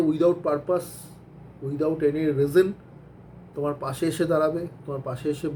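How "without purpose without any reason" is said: words drawn out slowly and firmly; slow deliberate emphasis on reason; slow emphatic. Real, not acted. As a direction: lay out the definition word by word. Defining a true friend.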